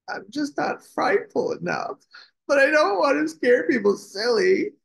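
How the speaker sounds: high, tearful-sounding outburst; upset little dragon. Acted. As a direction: plead it high, as if about to cry. Tearful dragon confesses to the princess.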